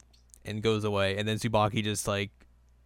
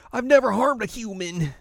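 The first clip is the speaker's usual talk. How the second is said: put-on much higher, innocent little kid; high Shippo voice; 11 semitones higher, 4 dB louder than usual. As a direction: squeak it sweetly. Voicing Shippo.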